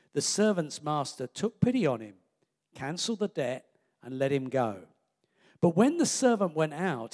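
measured, lively Bible reading; scripture reading. A narrator's reading. Preacher reading the parable to the congregation, steady reading. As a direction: read the parable clearly, voicing it a little.

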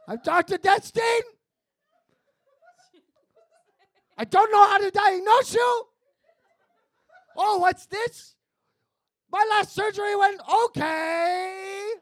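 hammed-up bumbling doctor, loud; loud bad doctor. Doctor auditioning for a friend, hammed-up and loud. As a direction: play the incompetent doctor, shouting. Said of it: "the worst nightmare for a patient".

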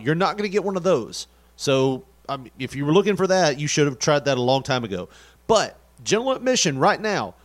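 punchy announcer plug for the show; event promo read. Acted. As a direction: sell the event like a radio spot.

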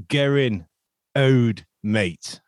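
Gerin in a Nottingham accent, hard g and short e. Shown as a demonstration. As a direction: say Gerin the Nottingham way, KEH-rin. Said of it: "I was trying to do a Nottingham accent".

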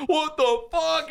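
high, drawn-out disbelief; slow, high-pitched retold freak-out; mock shock. Teen seeing his friend collapsed, mock shock.

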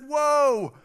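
high, loud, amazed father-in-law; over-the-top excitement. Retold or imitated. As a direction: exclaim it far too enthusiastically. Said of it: "Tone it down".

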